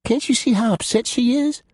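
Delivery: mild reproach; scolding. A narrator's reading. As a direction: gently scold a friend. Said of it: "Tabitha scolded".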